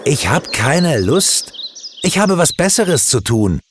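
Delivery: put-on jealous boy yelling at his friend; mock yell. A narrator's reading. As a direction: hurl it out beside himself with envy. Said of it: "schrie Stefan außer sich vor Neid".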